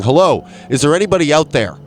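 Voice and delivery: calling into the void. Pretend. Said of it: "I'm speaking out into the void, and I'm saying".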